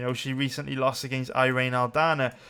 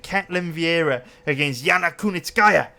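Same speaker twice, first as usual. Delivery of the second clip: names in a playful mock Japanese accent; 3 semitones higher, 5 dB louder than usual. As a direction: announce the fighters with a light, jokey Japanese accent. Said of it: "said Yana Kunitskaya in a Japanese accent".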